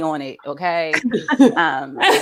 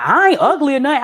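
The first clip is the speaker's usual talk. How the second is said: quick, higher-pitched protest; defensive son; 5 semitones higher, 3 dB louder, faster than usual. Retold or imitated. Son defending himself to mother, defensive. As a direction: imitate an indignant kid, rushed.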